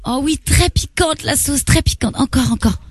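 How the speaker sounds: high, slow, drawn-out swoon; mock swooning delight. Woman praising the accent act, high slow swooning. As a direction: draw out each word in put-on rapture.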